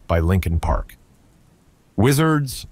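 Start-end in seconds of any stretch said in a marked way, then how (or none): 1.9-2.7 yelled with a smile. Acted. Iron Arms rallying his wizards, a grinning yell. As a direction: call the troops, grinning. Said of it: "Iron Arms yelled with a smile".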